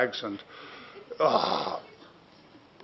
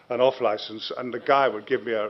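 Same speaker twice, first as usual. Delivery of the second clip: ordinary delivery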